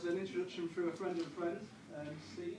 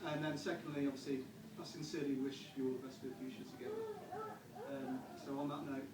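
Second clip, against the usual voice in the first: wedding toast speech; 2 semitones lower than usual. Acted. Best man's toast.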